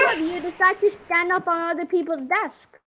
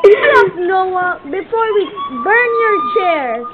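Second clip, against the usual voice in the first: sudden raised-voice mock reprimand; mock scolding; slower than usual. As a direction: cut them off as a fed-up pretend teacher. Teacher role silencing noisy Noah.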